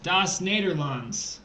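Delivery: slow mock Dutch accent; playful fake Dutch accent. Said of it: "This is my Dutch accent".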